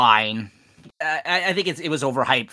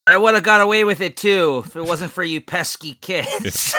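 Scooby-Doo villain; 4 semitones higher, 6 dB louder than usual. Retold or imitated.

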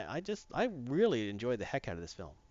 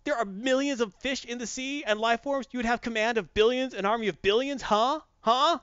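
much higher persuasive pestering; eager kid; 10 semitones higher, 3 dB louder than usual. Retold or imitated. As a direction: pitch the fish army idea eagerly. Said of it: "the kid's wearing his Aquaman shirt".

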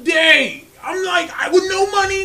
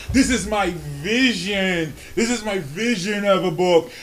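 hammed-up artsy director; pompous director; 4 semitones lower than usual. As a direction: parody a lofty auteur. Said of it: "visionary directors".

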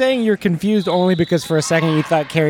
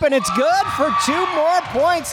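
much higher, shouted score call; excited call; 11 semitones higher than usual. Acted. Announcer cheering a basket, high shout. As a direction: shout the points like a thrilled announcer.

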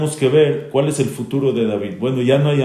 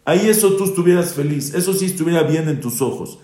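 higher-pitched, heated scolding of the king; stern rebuke; 5 semitones higher than usual. Retold or imitated. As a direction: press the king hard with each accusation. Joab rebukes the grieving king. (reprimenda acalorada de Joab al rey)

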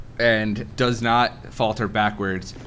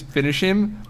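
mock goat scream; 8 semitones higher than usual. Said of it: "So he screams".

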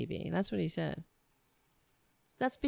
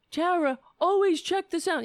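higher, louder mocking imitation of a nagging voice; mock yelling coworker; 11 semitones higher, 5 dB louder than usual. Mimicking the coworker who yells at her, a loud high mock nag. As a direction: parrot the person yelling at her, shrill and loud. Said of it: "yelling at me".

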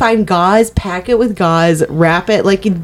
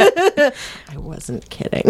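very soft, unvoiced mutter; whispered aside; 6 semitones higher, 9 dB quieter, slower than usual. Housemate admitting it under the breath, whispered. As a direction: drop to a whisper for the real truth.

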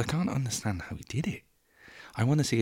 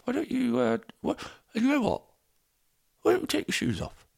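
high mock voice; 6 semitones higher than usual. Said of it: "I remember saying to John".

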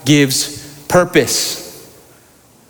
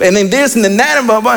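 higher-pitched mock rambling complaint; venting; 4 semitones higher, faster than usual. Preacher as Elijah unloading on God, venting. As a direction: rattle off grievances in caricature. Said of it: "give Elijah time to vent".

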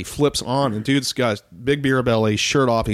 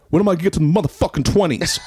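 higher, louder fed-up complaint, laughing through it; frustrated gangster; 9 semitones higher, 5 dB louder than usual. Retold or imitated. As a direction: grumble at the stack of hundreds. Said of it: "He's like".

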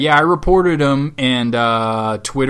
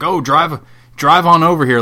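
mock Southern accent, higher and louder; 5 semitones higher, 6 dB louder than usual. Twitter troll inviting the host over, mock Southern accent. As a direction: call him over in a hammed-up Southern accent. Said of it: "I'm saying it in a Southern accent".

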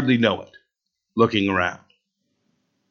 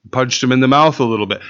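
fast, tossed-off mock echo; mocking repeat; faster than usual. Pastor mocking the boy's excuse before the congregation, rattled off fast. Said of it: "No, it isn't a, a little bit".

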